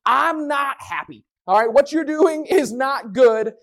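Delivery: slow, mock-stern God building to a shout; a hint of an exasperated father; fed-up God. God escalating his warning to the Israelites, slow mock anger. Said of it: "escalate it and goes".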